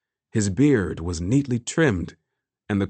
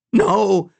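loud, high cry of refusal; emphatic, raised-voice denial; 11 semitones higher, 6 dB louder than usual. A narrator's reading. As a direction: cry out in protest. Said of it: "shook his head emphatically".

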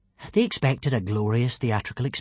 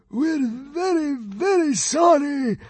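high, slow, frightened squeal; terrified whimpering apology; stammering; 14 semitones higher, slower than usual. A narrator's reading. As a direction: grovel in a panicky high voice. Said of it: "stammered the fat consul".

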